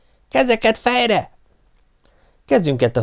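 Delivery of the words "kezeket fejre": high, slow barked command; drill order. Acted. Pop ordering hands on heads, slow drill command. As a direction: call it like an army drill.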